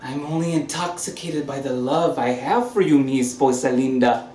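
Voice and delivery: overly affectionate tipsy charm; drunk. Acted. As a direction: gush at her like a man who's had too many. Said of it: "We'll talk when you've sobered up".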